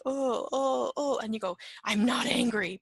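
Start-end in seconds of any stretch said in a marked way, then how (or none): 0.0-1.2 louder, higher acted groans; repeated "oh" in mock agitation; struggling with anger groans. You try to process the anger, acted agitated groans. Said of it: "trying to try to process this anger". 1.8-2.8 louder, acted angry denial; said angrily. You deny your anger to the companion, mildly angry. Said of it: "but you say that angrily".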